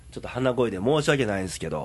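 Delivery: stuffy, blocked-nose voice; nasal voice. Real, not acted. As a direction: talk through a blocked nose.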